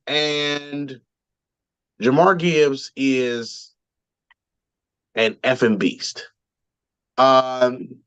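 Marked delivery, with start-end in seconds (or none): 2.0-6.3 slow, spaced-out emphasis on "Jahmyr Gibbs is an effing beast"; emphatic. Real, not acted. Host hyping a running back, slow emphatic "effing beast". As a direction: draw out "Jahmyr Gibbs is", pause, then land "an effing beast". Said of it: "I just wanna put emphasis on the two things".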